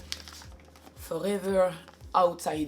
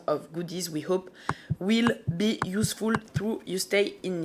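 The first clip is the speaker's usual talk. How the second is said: French accent. Real, not acted. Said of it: "Excusez-moi d'avance pour mon accent".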